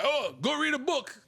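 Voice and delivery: high-pitched mock parental order; imitated scolding parent. Parent to child having a good time, mock scolding. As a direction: imitate a parent breaking up the fun. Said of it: "your parents hear you in the other room".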